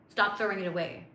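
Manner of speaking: usual speaking voice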